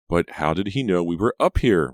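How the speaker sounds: a mild demanding question. A narrator's reading. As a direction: press for an answer. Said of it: "Reva demanded".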